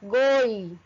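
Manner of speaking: "Goi" drawn out as a separate syllable; deliberate, fully articulated "Goi"; every letter audible. Shown as a demonstration. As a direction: sound out "Goi" slowly for learners. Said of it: "E dá pra ouvir todas".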